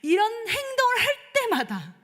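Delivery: high, crying break on the words; tearful cry. Real, not acted. Preacher confessing her failings to the congregation, tearful. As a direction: let the voice crack with tearful regret.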